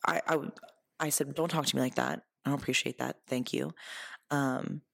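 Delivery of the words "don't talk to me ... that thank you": calm, kind boundary. Retold or imitated. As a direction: correct a friend without any edge. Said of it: "I was very kind".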